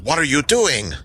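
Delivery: high, stilted goblin voice. Acted. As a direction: question them as a stiff-tongued goblin. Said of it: "in his stilted voice".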